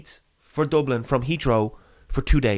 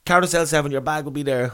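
mildly raised official's voice, mimicked; imitated curt official; 2 semitones higher than usual. Security man directs passenger to carousel, lightly mimicked. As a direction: imitate how the man spoke down to you. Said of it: "this is the way he was speaking to me".

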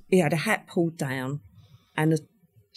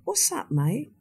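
softer, higher-pitched casual question; calm retold greeting; 8 semitones higher, 6 dB quieter, slower than usual. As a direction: imitate someone unbothered, keep it soft. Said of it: "all calm".

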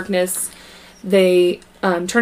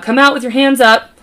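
cop shout; 5 semitones higher, 5 dB louder than usual. Acted. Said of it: "okay, I know it's a cop".

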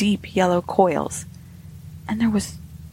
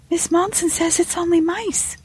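high maid's voice reciting by rote; high, singsong parroted excuse; repeating a learned lesson; 10 semitones higher than usual. A narrator's reading. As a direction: recite it like a servant's memorised line. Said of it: "as repeating a learned lesson".

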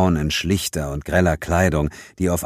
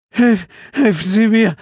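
high, breathless cry for help; gasping plea; 6 dB louder than usual. Acted. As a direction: gasp it out in panic. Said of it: "keuchte jemand vor mir". (keuchend und flehend, in Todesangst)

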